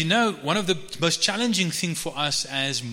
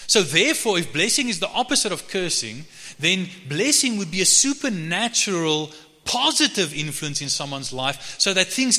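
higher-pitched, insistent sermon delivery; emphatic preaching; 6 semitones higher than usual. Real, not acted. Preacher defines blessing as opposite of cursing, emphatic preaching. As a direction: drive each point home to the congregation. Preacher drives the point home.

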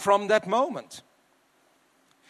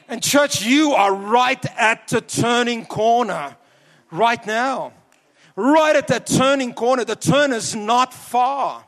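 slow, emphatic pulpit exhortation; measured preacher's appeal with weighty pauses; earnest preaching; 2 semitones higher than usual. Real, not acted. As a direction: urge the congregation on, stretching the key words. Exhorts the congregation.

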